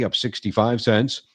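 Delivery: ordinary delivery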